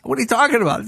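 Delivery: high-pitched, puzzled comeback; mock-bewildered question; retold bafflement. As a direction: act out a baffled driver. Acting out the baffled limo driver.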